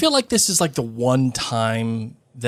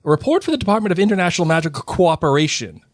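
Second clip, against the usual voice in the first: smug; 5 semitones higher, faster than usual. Acted. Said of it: "Percy said smugly".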